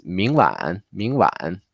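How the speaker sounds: 明晚 with the pitch held in the middle, not too high; mid-range tones. Shown as a demonstration. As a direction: say 明晚 rising, then dipping, keeping off the top of your range. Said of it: "not crazy high. It's, like, in the middle".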